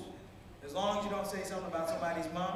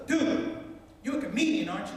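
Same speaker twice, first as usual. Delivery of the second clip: higher, louder starstruck blurt; excited recognition; 6 semitones higher, 4 dB louder than usual. Acted. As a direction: blurt it out like a thrilled fan. Sandwich man recognizes the comedian.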